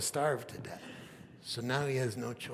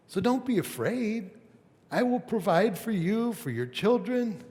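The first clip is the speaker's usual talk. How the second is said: spoken kindly; 7 semitones higher, 4 dB louder than usual. Acted. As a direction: lift them up kindly but with force. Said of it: "he spoke kindly".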